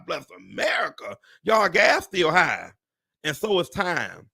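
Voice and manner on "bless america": soft, mock-tearful lament; mock crying. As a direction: whimper it as a joke. Mock lament about prices.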